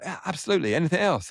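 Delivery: high, breezy imitation of an eager helper; imitating Scotty Cameron. Scotty Cameron offering the starstruck teenager anything, high and eager.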